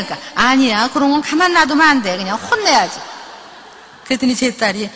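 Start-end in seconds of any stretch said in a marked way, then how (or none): 0.3-3.0 mock indignant mother. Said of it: "같이 막 흥분해주고".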